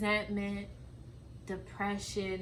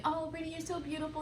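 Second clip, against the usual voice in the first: mimicking mom; 8 semitones higher, faster than usual. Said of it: "You telling me".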